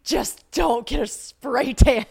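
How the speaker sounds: loud, high, drawn-out mimicry; mocking repeat. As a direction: throw it back slowly in an exaggerated mock voice. Mockingly repeating the unwelcome advice back.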